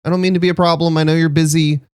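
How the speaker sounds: a tiny, nervous frog asking politely; small shy frog guest, hungry but apologetic; Sal the small frog. Acted. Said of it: "and then be like".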